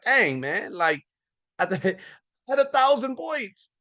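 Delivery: high, whiny letdown; a squeaky, deflated complaint; mock disappointed customer. Customer redeeming points for ten bucks, mock whiny.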